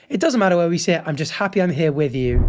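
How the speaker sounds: mildly tender imagined reassurance; lightly acted loving support; supportive. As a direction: ease down gently toward the end. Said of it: "The latter is supportive".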